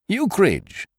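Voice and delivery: a high, distressed call of the name; anxious cry. Acted. George Tupper cries out in dismay as Ukridge arrives, high and anxious. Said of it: "cried George Tupper".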